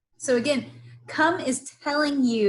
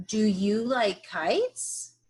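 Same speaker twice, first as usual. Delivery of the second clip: "Do you like kites?" drawn out with a rising end; slow modelling read; slower than usual. Shown as a demonstration. Teacher modelling the question for young readers.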